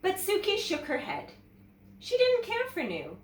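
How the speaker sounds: put-on lively read-aloud to children; teacher reads a picture book to young students, animated; storybook narration. A narrator's reading. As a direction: tell it like story time for kids.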